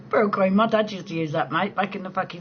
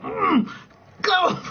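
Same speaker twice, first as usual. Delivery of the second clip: high, louder mock-angry push; mock angry grunt; 11 semitones higher, 4 dB louder than usual. Telling viewers how the wind makes her angry, mock grunt. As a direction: snap it at the wind in play. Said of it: "I'm like".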